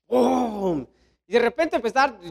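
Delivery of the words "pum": drawn-out thunder boom; imitated thunderclap. Preacher recreates lightning on the volcano, imitated thunderclap. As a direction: mouth the crash of lightning. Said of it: "se escuchan los relámpagos".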